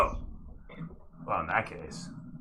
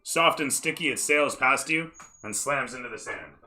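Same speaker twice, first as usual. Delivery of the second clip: lively scene-setting delivery; game master narration; 3 semitones higher than usual. Acted. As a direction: narrate the action to the player.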